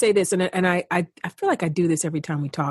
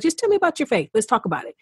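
breezy imitation of casual interest; quick higher lift, then settle back down; casually interested; 4 semitones higher, faster than usual. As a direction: toss it off as a light request. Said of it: "no, like, longing to fully understand it".

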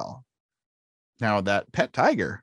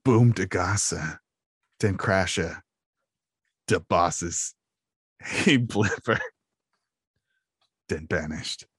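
Jar Jar voice; 5 semitones lower, slower than usual. Retold or imitated. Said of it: "You'd say".

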